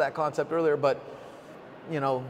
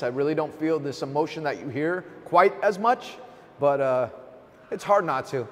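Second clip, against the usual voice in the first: choked-up, cracking voice; voice breaking. Real, not acted. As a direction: emotion catching in the throat. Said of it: "So this voice sucks right now".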